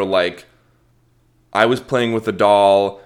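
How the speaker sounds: ordinary delivery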